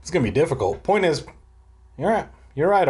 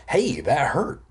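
whining; slower than usual. Acted. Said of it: "he whined".

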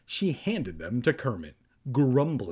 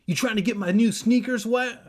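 high, loud confrontational bully; snarling; 10 semitones higher, 7 dB louder than usual. A narrator's reading. Conan confronts the boys about his sneakers, snarling. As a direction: snarl it loudly in a put-on voice. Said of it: "Conan snarled".

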